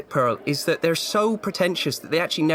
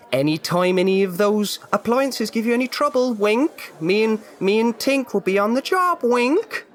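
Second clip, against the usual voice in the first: sly winking hint; 6 semitones higher, slower than usual. Acted.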